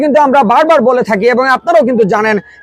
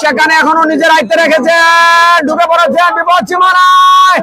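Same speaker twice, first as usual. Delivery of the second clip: excited; 3 semitones higher than usual. Real, not acted. Player breaks into the box.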